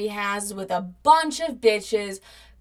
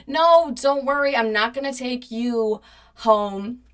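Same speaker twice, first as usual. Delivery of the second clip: raised, emphatic mock soothing; false reassurance; 2 semitones higher, 4 dB louder than usual. Calming ex trying to jump out, retold false reassurance. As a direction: imitate placating someone you don't mean it to.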